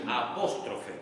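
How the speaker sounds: "apóstrofe" said slowly with stress on PÓS; as it sounds. Shown as a demonstration. Teacher dictating a term to the class, "apóstrofe" carefully sounded out. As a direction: sound out "apóstrofe" clearly, leaning on the second syllable. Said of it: "así como suena".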